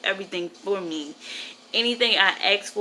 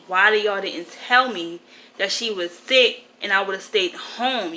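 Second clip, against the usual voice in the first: retold fussing at an aunt, louder at first; 5 dB louder than usual. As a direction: demand an answer, as if reliving the argument. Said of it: "I'm just fussing at my aunt".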